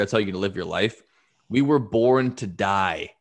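leader's speech to his men, with measured dramatic pauses; rally the troops in a storyteller's imitation; retold rallying speech. Commander rallies men facing death.

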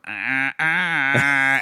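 long drawn-out mock "ah" noises; imitated model shark noise. Mocking a prop shark moving in, imitated drone.

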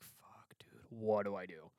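hushed, panicky whisper; scared whisper. Retold or imitated. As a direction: whisper like something's in the room. Hiding from ghost, whispering.

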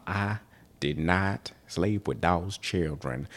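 slow, lightly put-on Clinton voice with a tentative rise; a clumsy attempt at Clinton's drawling denial; Bill Clinton impression. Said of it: "I cannot do a Bill Clinton impression".

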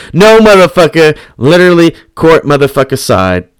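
loud, high emphatic burst; emphatic excitement. Retold or imitated. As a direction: punch it out to shut down any doubt. Corrects own doubt about courtside seats.

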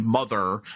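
MOTHER with the r dropped, ending in "uh"; New York pronunciation. Shown as a demonstration. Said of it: "mother becomes mother".

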